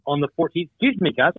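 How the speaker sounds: talking with sudden hiccups. Real, not acted. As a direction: hiccup between the words. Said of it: "I got the hiccups all of a sudden".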